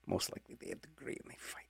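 breathy whispered joke under the breath; whispered aside. Acted. DJ slipping a joke to listeners in a whisper. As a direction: let the snark slip out as a whisper. Sly aside while reading promo.

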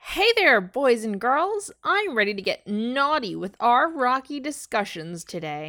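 flirty host. Acted. Reading AI script.

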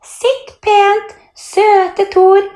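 very high, affected play-teacher voice; silly put-on voice. A narrator's reading. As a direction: coo orders in a squeaky pretend voice. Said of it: "Mia lager rar stemme". (rar, lys lærerinnestemme)

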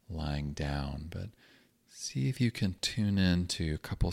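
calm, unhurried meditation guidance with long pauses; guided meditation. Acted. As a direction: gently guide listeners into grounding, leaving space between phrases.

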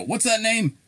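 high-pitched mock query; imitated puzzled caller. West Virginia caller to tech support, imitated puzzled and high. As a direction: pitch it well up like a baffled caller.

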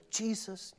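soft, offhand Jesus; quiet casual call. Retold or imitated. Martha's imagined meek approach to Jesus, soft and offhand. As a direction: say Jesus meekly, under your breath. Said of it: "quietly, casually goes in and goes".

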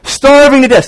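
put-on high, loud, drawn-out hungry-kid whine; whiny starving kid. Pastor mimicking his son whining he's starving. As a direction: wail it like a kid dying of hunger. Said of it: "it's always like".

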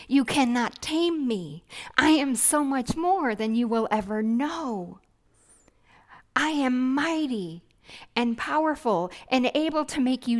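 God declaring His power over Elijah. Retold or imitated. God booming at the prophet Elijah, loud and commanding. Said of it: "God is saying to Elijah".

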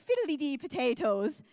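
lightly caricatured Irish mum; mock Irish accent. Mum answering her daughter, mock Irish accent. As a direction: toss it off in a jokey Irish lilt. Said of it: "has a very thick Irish accent".

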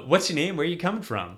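lightly voiced booming genie; a hint of Robin Williams genie. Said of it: "he's like".

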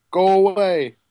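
put-on a gruff, sulky boy with a low voice; deep voiced child. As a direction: grumble it like a grumpy kid. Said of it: "You have a very deep voice for a, a ten-year-old".

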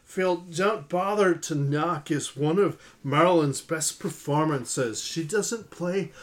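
lightly put-on Valley Girl reading; Californian accent. Host reading a listener's comment, light Valley Girl accent. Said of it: "She's from the Californians".

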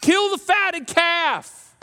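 very slow, high proclamation; a slow, weighty announcement; dramatic reading. Shown as a demonstration. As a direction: stretch each word out grandly. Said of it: "read dramatically".

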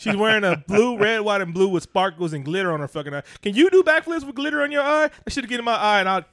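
loud, high-pitched rant that keeps climbing; heated yelling. Real, not acted. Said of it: "why are you yelling at me?".

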